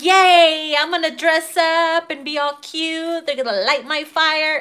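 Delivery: a hammed-up eager squeal of a voice; mock excitement. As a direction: play a giddy girl heading out on a date. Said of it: "You're like".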